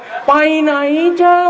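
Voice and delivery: put-on northern Thai accent. Preacher imitating northerners passing by train, in a light northern Thai accent. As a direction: greet lightly like a northerner in a tunnel. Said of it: "อุโมงค์ขุนตาลนี่คนเหนือ".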